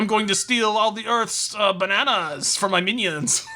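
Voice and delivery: lightly voiced wacky cartoon villain; mock villain threat, slightly hammed-up; Gru. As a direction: announce a silly evil scheme. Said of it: "He's like".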